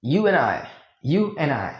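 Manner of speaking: You and I said as "you an' I"; you an' I, no D sound; silent d. Shown as a demonstration. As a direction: drop the D of and. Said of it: "तो ये हो जाता है silent".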